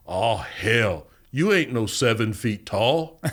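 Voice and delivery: lightly voiced big man, slow disbelief; huge inmate impression. Big sizing up Shipley, imitated slow disbelief. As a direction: drawl it slowly as the incredulous big inmate. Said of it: "He goes".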